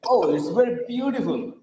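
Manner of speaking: demonstrated admiring "beautiful", long on BEAU; "Oh" then a weighted BEAU-tiful; intense admiration. Shown as a demonstration. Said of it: "it shows the intensity of the beauty".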